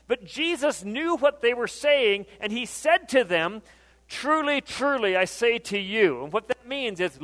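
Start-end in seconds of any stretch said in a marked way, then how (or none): 4.1-6.2 raised, forceful scripture quote; emphatic proclamation. Acted. Jesus addressing the disputing crowd, emphatic proclamation. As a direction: proclaim it to make them listen. Preacher voices Jesus calling for attention.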